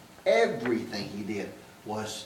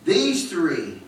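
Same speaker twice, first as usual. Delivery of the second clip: raised, ringing scripture recital; scripture recitation; 3 semitones higher than usual. Acted. Preacher reciting Corinthians to the congregation, raised. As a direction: proclaim the verses to the church.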